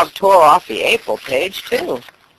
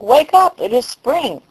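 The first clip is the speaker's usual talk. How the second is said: excited call; 10 semitones higher than usual. A narrator's reading. Frog calling at the door.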